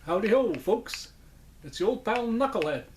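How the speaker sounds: high-pitched puppet voice; Knucklehead Smith. Acted. Puppet greeting his old pals, high dummy voice. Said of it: "I finally got the voice right".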